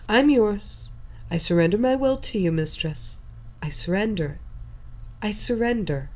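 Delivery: quick eager blurt. Acted. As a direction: rush the words out eagerly. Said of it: "she quickly blurted out".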